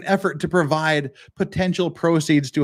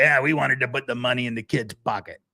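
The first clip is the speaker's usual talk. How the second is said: lightly voiced mock of a careless quote; mocking Alec Baldwin. Mocking how Baldwin spoke about the son, a light sneer. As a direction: toss it off like you barely care. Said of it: "You don't say".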